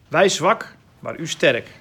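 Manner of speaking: loud, punched ironic contrast; sarcastic. Retold or imitated. Teacher quoting Paul on weak and strong, sarcastic. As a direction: quote it as a sarcastic jab. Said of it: "sarcastisch bedoeld".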